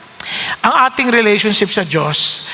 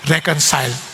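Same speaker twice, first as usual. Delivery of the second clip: slow, measured lines, each pair set against the other; slow solemn preaching; slower than usual. Acted. Preacher to the congregation, slow and solemn. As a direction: let every contrast land slowly.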